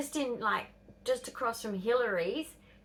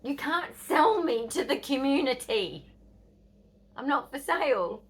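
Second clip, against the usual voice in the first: imitated indignant protest; 5 semitones higher, 4 dB louder than usual. Daughter protesting to mum in story.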